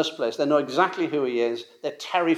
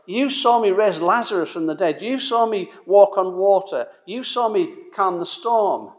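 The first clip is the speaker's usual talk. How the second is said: raised, pleading list of proofs; exasperated; 4 semitones higher than usual. Retold or imitated. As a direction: remind them, growing fed up. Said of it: "you can imagine him saying".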